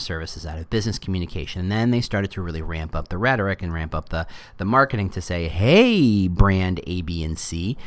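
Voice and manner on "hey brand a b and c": lightly put-on corporate pitch, low after the hey; mock sales voice, dropping low; weird Facebook voice. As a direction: pitch to brands in an odd company voice. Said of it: "that weird Facebook accent or voice".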